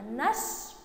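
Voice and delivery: نش as one syllable with the sh held; joined syllable. Shown as a demonstration. Teacher joining noon to sheen for pupils, نش as one held syllable. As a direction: run the noon into a long sh: نش. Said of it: "نقول النون مع الشين نش".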